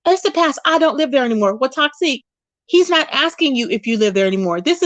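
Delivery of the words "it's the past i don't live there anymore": mock yell. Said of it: "This is what she was saying".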